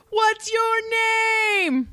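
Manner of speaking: put-on high-pitched childlike question; quoting the TikTok in a high voice; high quoted question. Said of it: "there's a TikTok where it's all".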